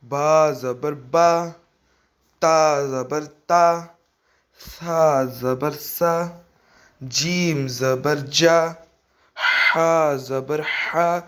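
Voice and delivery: slow, sing-song syllable drill with a rise on each; measured Qaida recitation. Shown as a demonstration. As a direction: recite each letter slowly for pupils to copy.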